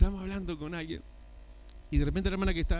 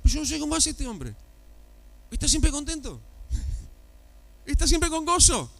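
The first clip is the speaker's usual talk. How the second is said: imitating the sister; 11 semitones higher than usual. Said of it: "y ella decía".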